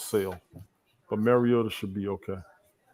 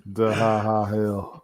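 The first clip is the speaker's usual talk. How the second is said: drawn-out Southern country drawl; 3 dB louder, much slower than usual. Acted. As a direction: lightly imitate a slow Southern country voice. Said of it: "that Southern country voice that I do".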